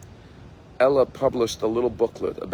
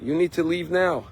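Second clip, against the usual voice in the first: mild retold yell; 5 semitones higher than usual. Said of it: "angry, and started yelling".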